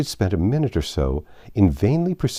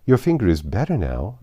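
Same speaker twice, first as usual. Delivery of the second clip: very politely; 4 semitones higher, 4 dB louder than usual. Acted. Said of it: "Alice said very politely".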